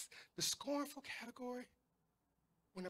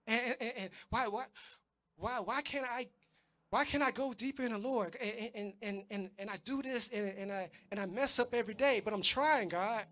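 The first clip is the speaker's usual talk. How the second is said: acted stammering plea, building louder; frustrated pleading; 4 dB louder than usual. Struggling believer protesting to God about daily failings, frustrated pleading. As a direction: plead haltingly like a struggling believer, mildly exasperated.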